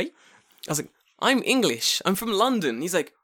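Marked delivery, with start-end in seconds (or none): 1.2-2.8 high, louder insistence; higher voice, pressing the point home; emphatic insistence. Retold or imitated. Insisting to confused Japanese man.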